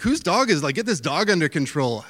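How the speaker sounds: a bitten tourist panicking at the dog; mock freaked-out yell. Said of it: "person's freaking out".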